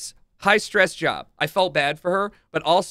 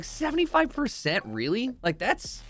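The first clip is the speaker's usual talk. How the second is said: mock outrage; 5 semitones higher than usual. Complaining to himself about the power bank, mock outraged. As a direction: act scandalized over a trivial number. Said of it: "in my head, I was like".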